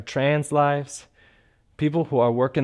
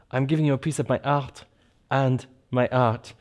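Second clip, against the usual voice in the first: put-on French accent. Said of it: "in a French accent".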